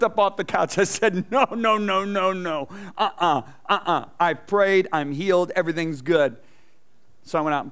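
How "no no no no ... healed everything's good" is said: protesting. Retold or imitated. Jumping up refusing his wife.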